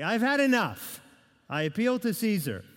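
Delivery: imitating a man pushed too far, putting his foot down; fed-up Paul.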